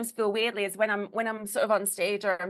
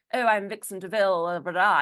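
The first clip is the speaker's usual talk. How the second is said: lightly put-on posh stage voice, louder; mock-grand posh self-introduction; heightened posh voice; 4 dB louder than usual. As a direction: play up a posh hostess persona a little. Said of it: "I had this really heightened voice".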